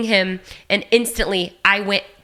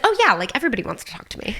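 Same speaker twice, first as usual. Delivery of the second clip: mock self-important kid; much faster than usual. Kid self quoted, laughing.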